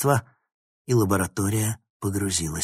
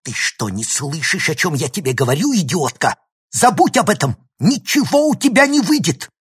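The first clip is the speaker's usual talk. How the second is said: building to a high, loud shout; furious; 8 semitones higher, 8 dB louder than usual. A narrator's reading. Professor grabs student's shoulders, shouting her down furiously. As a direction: rage at them, ending at full shout. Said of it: "яростно вцепился в её плечи".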